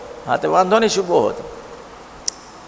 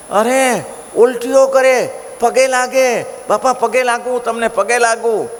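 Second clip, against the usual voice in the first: much higher, begging voice; desperate pleading; 8 semitones higher, slower than usual. Acted. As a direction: plead at his feet after the torment. Man begging Maharaj after torment. (ઊંચા અવાજે કરગરતો, પગે પડતો)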